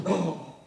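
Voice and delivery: hammed-up gasp of shock; melodramatic gasp. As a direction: parody old-movie overacting. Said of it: "That over-the-top emotion".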